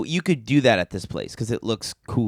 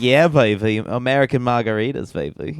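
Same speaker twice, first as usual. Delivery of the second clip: Austin Powers voice. Retold or imitated. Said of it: "Are they Austin Powers?".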